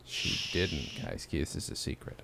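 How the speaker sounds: mock-secretive near-whisper; hushed secret. Host pretending to keep the staff's secret, hushed and conspiratorial. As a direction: drop to a hush, as if keeping it from being overheard.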